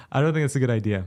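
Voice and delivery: put-on a half-hearted go at a British accent; hint of British accent. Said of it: "Go back to British accent".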